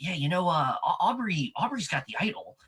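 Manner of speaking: confiding, secretive stage whisper. Retelling how Christian told Emily about the idol: imitating someone half-whispering.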